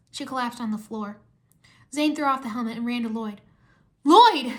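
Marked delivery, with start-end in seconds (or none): 4.0-4.5 high, loud call of a name. A narrator's reading. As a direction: call out to a friend. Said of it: "he said".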